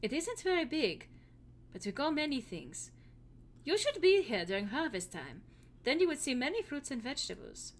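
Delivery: put-on lightly held German accent as Hilda; a hint of a German farm girl. Hilda tells the hero about her farm in a German accent. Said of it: "this accent".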